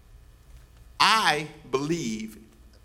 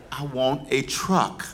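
stubborn mother; 2 semitones lower, slower than usual. Retold or imitated. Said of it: "All her life she wanted a truck".

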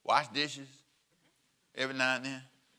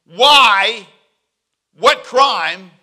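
Pilate's question; 4 semitones higher, 13 dB louder, much slower than usual. Retold or imitated.

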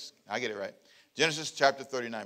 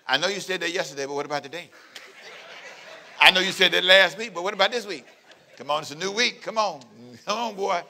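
laughing mock pleading; faster than usual. Wife pleading with Joseph daily.

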